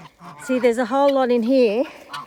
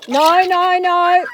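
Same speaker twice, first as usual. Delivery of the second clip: firm no; 7 semitones higher, 9 dB louder, much slower than usual. Real, not acted. Stopping the dog.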